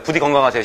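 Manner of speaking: "건강하세요" said 겅강, ng before g; colloquial pronunciation. Shown as a demonstration. Teacher prompting class to say it, colloquial pronunciation. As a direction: run "건강하세요" together as geong-gang. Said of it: "건강하세요 하잖아요".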